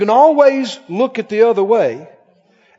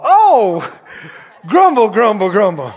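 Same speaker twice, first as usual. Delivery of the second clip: loud mock grumble at a stubbed toe; mock grumbling; 5 dB louder than usual. Preacher mimicking a churchgoer grumbling after kicking a toy. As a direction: grouse it like a sulky child. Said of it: "kick a toy in the hall".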